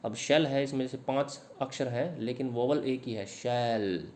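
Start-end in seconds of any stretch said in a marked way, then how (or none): 3.2-4.1 "शैल" with a long, open "ai" sound; drawn-out vowel. Shown as a demonstration. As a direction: stretch the vowel in "शैल" so it stands out. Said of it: "ए की आवाज़ आ रही है". ("शैल" में "ऐ" की आवाज़ खींचकर)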